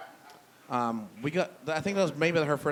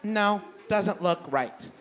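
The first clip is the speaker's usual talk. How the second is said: slow, doubtful higher drawl, hands on hips; skeptical roommate; 4 semitones higher, slower than usual. Retold or imitated. Roommate with hands on hips doubting his tire change, slow and skeptical. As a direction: judge the tire slowly and doubtfully. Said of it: "hands on her hips and goes".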